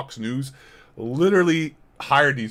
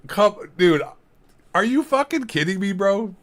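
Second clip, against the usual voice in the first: disbelief; 7 semitones higher, 4 dB louder than usual. Real, not acted. Disbelief at chat comment.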